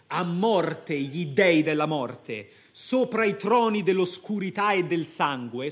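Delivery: captain cursing the gods of death, forcefully; vigorous battle cry. Acted. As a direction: hurl it like a war cry. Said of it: "gridò Marco con vigore".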